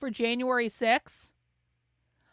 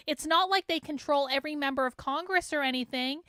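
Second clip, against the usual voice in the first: sarcastic; 3 dB quieter than usual. Real, not acted. Mocking James Lindsay's claim.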